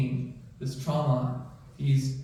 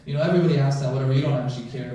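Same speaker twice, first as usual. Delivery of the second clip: retold irritation, louder at the start then hurried; mad; 5 dB louder, faster than usual. Patient dismissing the doctor's how-are-you, mildly mad. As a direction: imitate a mildly angry patient, rushing the brush-off. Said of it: "He got mad at me".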